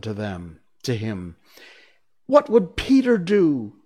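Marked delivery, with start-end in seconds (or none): 2.3-3.8 high, loud urgent question; raised, eager cry. Acted. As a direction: call it out like a gang of excited boys. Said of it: "they cried simultaneously".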